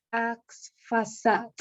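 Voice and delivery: "Axfasat" dragged out haltingly, syllable by syllable; struggling to pronounce. Real, not acted. Teacher dictating a difficult biblical name, struggling to pronounce. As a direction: sound out "Axfasat" very slowly, unsure of it. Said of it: "Me cuesta pronunciar este nombre".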